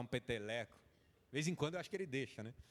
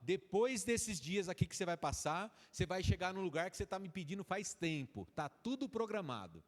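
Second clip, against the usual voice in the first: God speaking tenderly; 5 semitones higher, 4 dB louder than usual. Acted. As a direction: reassure the child it is all planned. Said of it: "Deus olhando pra você, falando assim".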